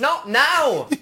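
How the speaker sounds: high-pitched exasperated snap; hammed-up irritation; mock impatient dismissal. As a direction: play a boss brushing off an interruption. Boss waving off the runner.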